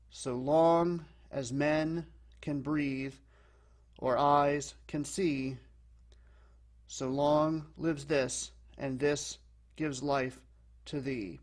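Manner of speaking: slow scansion, leaning on "long", "men", "breathe", "eyes", "see"; unstressed-stressed beat, weight on every second word from "long" to "thee"; alternating iambic stress. Shown as a demonstration. Teacher showing a regular alternating pattern, slow iambic stress from "So long". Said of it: "fits into this regular alternating pattern".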